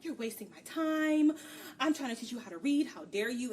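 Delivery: mock-indignant outburst, starting loud; pissy. Prince scolds Fee over the reading lesson, retold pissy huff. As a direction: huffily imitate an offended prince. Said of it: "he gets all pissy with her".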